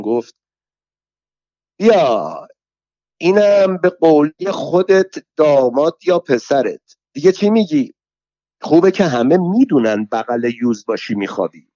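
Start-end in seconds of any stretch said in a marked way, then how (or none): 1.8-11.7 higher, mocking jeer; a sneering rival, somewhat higher; taunting rival woman. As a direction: needle her with a sneer. Saheb Soltan taunts Alaviyeh.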